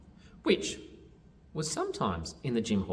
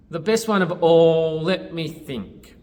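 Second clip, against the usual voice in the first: loud, stretched-out pondering; wondering aloud; 6 semitones higher, 10 dB louder than usual. A narrator's reading. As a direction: draw it out as if weighing the choice. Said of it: "wondered Tolu".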